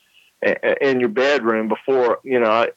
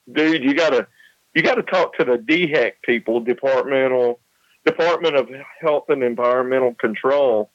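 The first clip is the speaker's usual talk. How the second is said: short of breath. Real, not acted. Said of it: "I'm still just a little bit short of breath".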